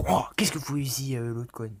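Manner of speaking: loud breathy startled whisper. Real, not acted. Player startled by a figure appearing, startled whisper. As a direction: gasp it out in surprise.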